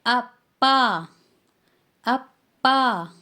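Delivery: "अप्पा" slow, doubled p; teacher modelling Korean "अप्पा"; Korean word. Shown as a demonstration. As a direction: model "अप्पा" slowly twice. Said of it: "dad को".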